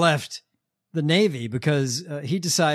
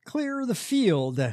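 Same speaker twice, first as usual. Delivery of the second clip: slow, drawn-out mock preacher command; a hint of a radio preacher's decree; 7 semitones higher, slower than usual. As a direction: lightly imitate the preacher, stretching each word. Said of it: "he enunciates like Joel Webben".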